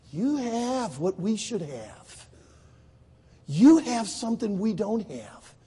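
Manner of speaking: slow, drawn-out words of envy; wistful jealousy. Retold or imitated. Israelis provoked to jealousy by Baptists, slow and wistful. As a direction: weigh each word, lightly imitating longing. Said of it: "it provoked them to jealousy".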